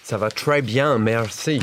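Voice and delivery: mock English tourist's French; French with English accent. Shown as a demonstration. Frenchman demonstrates an English person speaking French, English accent. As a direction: say French with flat-footed English sounds. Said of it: "French with an English accent again".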